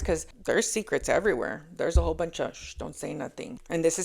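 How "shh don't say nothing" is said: hushed, softer shushing; hushing. Acted. People keeping his secrets, hushing each other. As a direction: hush someone to keep a secret.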